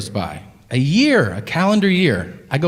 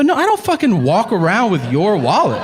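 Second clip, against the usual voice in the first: exasperated retort; 5 semitones higher than usual. Retold or imitated. Exasperated reply to the waiter.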